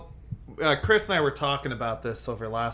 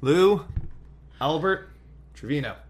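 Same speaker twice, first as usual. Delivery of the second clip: put-on Latino accent; 3 semitones higher, 6 dB louder, slower than usual. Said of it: "a Latino accent".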